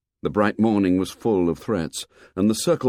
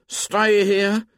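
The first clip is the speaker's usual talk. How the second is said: high timid rising question; timid Piggy; 13 semitones higher, 3 dB louder than usual. A narrator's reading. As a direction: plead it nervously, voice lifted. Piggy's voice in the story.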